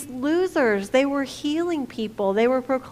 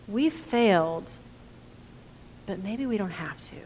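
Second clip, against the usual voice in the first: dropping to a near whisper; hushed hope; 3 semitones lower, 4 dB quieter than usual. Retold or imitated. Disciples' hopeful inner voice.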